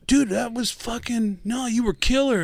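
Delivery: imitated high-pitched consoling; over-reassuring band member. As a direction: insist in a high voice that it went great. Second band consoling him, acted.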